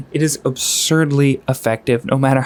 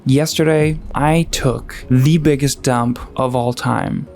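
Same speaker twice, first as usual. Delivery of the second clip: dramatic pacing. Shown as a demonstration. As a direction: make the mundane sound momentous. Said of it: "make the mundane sound dramatic with the right pacing".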